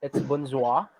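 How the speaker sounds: bonjour with a clear final syllable; teacher's model pronunciation. Shown as a demonstration. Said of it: "the last syllable".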